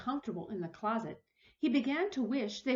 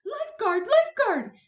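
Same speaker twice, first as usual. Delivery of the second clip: high, loud call for the lifeguard; 12 semitones higher, 11 dB louder than usual. Acted. Neighbor shouting for the lifeguard across the beach. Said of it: "she cried".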